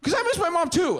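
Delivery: a loud, high crying wail; mock wail. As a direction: burst out wailing up high. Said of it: "then he started crying".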